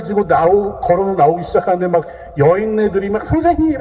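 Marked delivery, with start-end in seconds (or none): 3.2-3.8 sudden high cry of a desperate woman. Retold or imitated. Women rushing at the soldiers, crying out to their teacher. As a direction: fling the word out as a wail.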